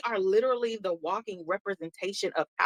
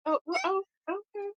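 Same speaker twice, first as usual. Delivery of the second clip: deflated okay; 12 semitones higher, 5 dB quieter than usual. Retold or imitated. Acting deflated reply.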